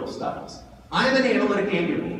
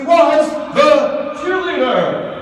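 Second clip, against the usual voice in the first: big, high cheerleader yell, drawn out; cheerleader loud; 8 semitones higher, 11 dB louder, much slower than usual. Acted. Dad showing how his daughter's voice carries across a sporting field, loud cheerleader yell. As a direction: belt it out slowly like a cheerleader. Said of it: "I could pick out her voice".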